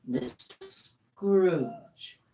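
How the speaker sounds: slow cold greeting. Acted. Gentleman startled, cold.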